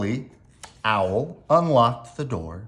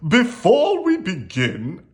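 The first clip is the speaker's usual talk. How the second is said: raised, louder cheerful announcement; beaming; 7 semitones higher, 5 dB louder than usual. A narrator's reading. Owl opens the meeting, beaming announcement. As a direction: open proudly with a smile. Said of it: "Owl beamed".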